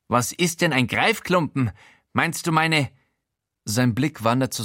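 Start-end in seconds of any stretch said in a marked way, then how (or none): 0.1-2.9 a fussy, nosy voice pitched up; Showalter's voice. Acted. Housemate Showalter startles the naked narrator, high.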